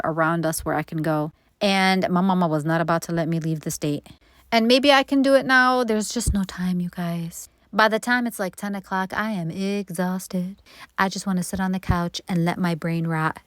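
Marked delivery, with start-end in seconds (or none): 5.8-7.5 a soft confiding whisper to viewers. Real, not acted. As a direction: let them in on a secret. Confiding she's too busy.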